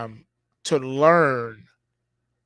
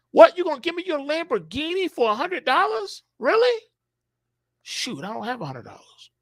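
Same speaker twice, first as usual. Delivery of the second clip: much higher, disbelieving, then deflating to a mutter; mock surprised buyer; 12 semitones higher than usual. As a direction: gasp at the deal, then sag. Imagined buyer offered a Lamborghini.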